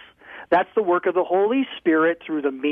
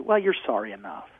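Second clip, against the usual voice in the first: low, soft, easygoing priest; a mild priest waving it off, low and quiet; imitating the priest, low and soft; priest's low mild voice; 8 semitones lower, 5 dB quieter than usual. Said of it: "the guy looks at me and says".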